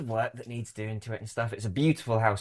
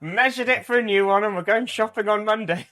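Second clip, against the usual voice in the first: higher, louder upbeat retelling; cheerful message; 9 semitones higher, 6 dB louder than usual. Retold or imitated. Wife's message about decorating the house, acted cheerfully. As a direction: brightly report a job well done.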